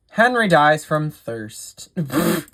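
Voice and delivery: slow read tipping into a laugh; breaking into laughter. Real, not acted. Game host reading a silly death, breaking into laughter. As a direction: read it slowly, then crack up. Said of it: "why I'm laughing at that".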